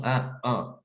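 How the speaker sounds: "un, un" as two distinct nasal vowels; quoted demo of "un" in two vowel shades; two different nasals. Retold or imitated. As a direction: contrast the two "un" sounds side by side. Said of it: "c'est pas le même son".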